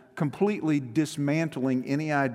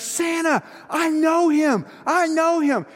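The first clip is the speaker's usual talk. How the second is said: imitated ecstatic scream, high and loud; Buddy the Elf; 12 semitones higher, 6 dB louder than usual. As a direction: scream it like an elf bursting with excitement. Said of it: "and so he screams".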